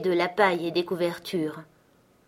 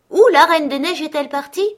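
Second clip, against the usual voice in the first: higher, louder call upward; 9 semitones higher, 11 dB louder than usual. Acted. Gerda calling up to the pigeons, loud and higher. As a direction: shout the question up high.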